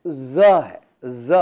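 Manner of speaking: ز buzzed loudly; sound demo. Shown as a demonstration. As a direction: hold the buzz of ز. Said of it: "دوسری آواز". (ز کی آواز)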